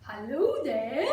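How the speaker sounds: slow, lightly voiced monkey greeting. A narrator's reading. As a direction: draw out a curious monkey's hello. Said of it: "The monkey asks the bird".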